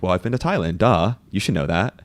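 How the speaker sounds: teasing imitation of a blasé co-host; mock offhand. Host teasing co-host about her Thailand answer, mock offhand. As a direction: play it as obvious, lightly mocking. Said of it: "you say that like it's just a thing".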